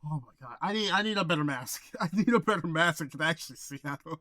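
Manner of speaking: muffled through a mask; talking from behind a mask; inside a rubber mask. Real, not acted. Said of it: "it gets really hot in this mask".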